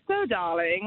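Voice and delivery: put-on British "darling"; British accent. Caller showing her habit, British accent. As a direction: slip into a mock British accent. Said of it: "pick a random British accent".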